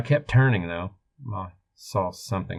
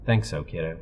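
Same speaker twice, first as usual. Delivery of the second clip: reassuring. Acted. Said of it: "I said reassuringly".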